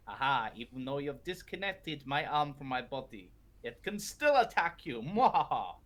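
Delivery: gloating villain with evil laugh; mad scientist. Acted. GM voices gloating zombie villain.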